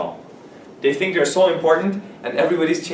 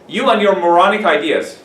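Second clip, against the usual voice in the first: mock scorn; 3 semitones higher, 4 dB louder than usual. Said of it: "it's kinda rude".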